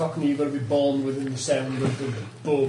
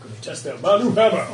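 mock imitation; 4 semitones higher, 3 dB louder than usual. Playfully mimics player's hammer line.

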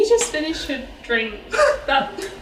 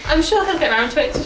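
laughing; 4 semitones higher, 5 dB louder than usual. Real, not acted. Repeat, laughing.

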